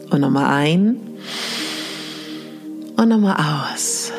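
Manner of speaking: sleep story narrator. Acted. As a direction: breathe it out gently, long pauses. Leads mirror meditation exercise.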